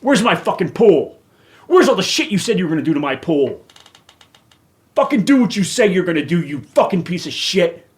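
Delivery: real anger at the association; furious at unkept promises about the pool; angry rant. Real, not acted. Ranting at the homeowners association.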